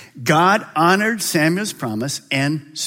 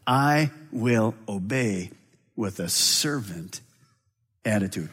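humble vow; 7 semitones lower, 8 dB quieter, slower than usual. Acted. Mary answering God humbly.

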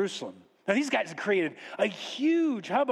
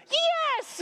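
very high, drawn-out squeal of yes; excited yes. Acted. Servant welcomes the magi at the door, excited. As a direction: burst out in a high voice.

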